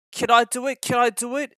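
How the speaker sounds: anxious puffing. A narrator's reading. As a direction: puff it out worried about the hill. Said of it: "he puffed anxiously".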